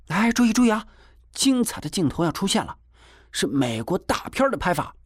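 put-on high-pitched excited boy announcer; proud showing off. A narrator's reading. Boy announces his best shot to everyone, proud showing off. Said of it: "金锁还在得意的张扬着".

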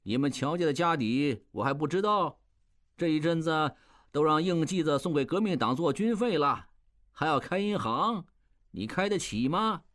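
high, mocking old man's jeer; sneering old master. Old master scoffing at the manager in the street, high mocking jeer. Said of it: "斜着眼看我说".

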